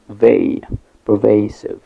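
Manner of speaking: "vey" alone, then "pervasive" stressed on it; loud "pervasive" with the middle syllable strongest; stress on second syllable. Shown as a demonstration. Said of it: "the stress is on the second syllable".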